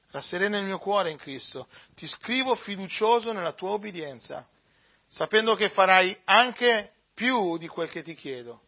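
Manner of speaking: measured, solemn reading of a letter; a steady liturgical reading voice; scripture reading. Acted. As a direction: read it like the lesson in church. Reads Paul's letter aloud.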